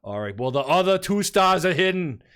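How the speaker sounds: a light Bernie Sanders voice, flustered; Bernie Sanders impression. Flustered scribe covering his mistake, Bernie Sanders voice. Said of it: "you just turned into Bernie Sanders".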